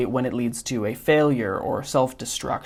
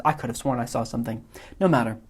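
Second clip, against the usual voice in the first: a hint of a fussy, self-satisfied villain; Wallace Shawn's Vizzini; faster than usual. Teacher reading Vizzini's lines to the class, mild smug imitation. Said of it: "mimicking Wallace Shawn's inflection".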